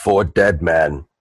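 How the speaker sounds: low, slow brute toast; Boom Boom toast. Acted. Boom Boom toasts with each drink, low and slow. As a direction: intone it deep and slowly. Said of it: "he goes".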